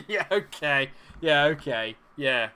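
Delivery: shouted, incredulous acknowledgement; loud disbelief. Real, not acted. Gamer reacting to his match, loud enough to hurt headphones, incredulous. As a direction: blast it out in exasperated disbelief. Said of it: "Sorry to anyone that's having headphones there".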